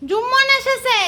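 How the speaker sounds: very high squeaky pet voice, pretending to be the cat; cat announcing Jummon to mummy in a high squeak; voicing the cat. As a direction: speak for the cat in a tiny high voice.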